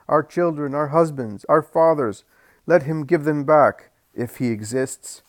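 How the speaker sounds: loud, high demanding shout; crowd shouting. Acted. The grieving crowd shouts at Jesus, loud and high. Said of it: "They all shout".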